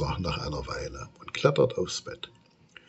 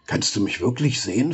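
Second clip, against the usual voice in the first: plaintive; faster than usual. Acted. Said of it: "fragt es kläglich".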